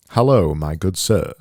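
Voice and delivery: put-on ridiculous English accent. Designer repeating his sample greeting, hammed-up English accent. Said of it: "make it a bit more ridiculous".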